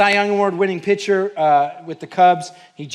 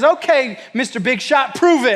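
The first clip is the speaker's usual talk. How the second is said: higher, mocking challenge; taunting; 6 semitones higher, 4 dB louder than usual. Keeper daring the big shot, mocking and higher. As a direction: dare him to prove it.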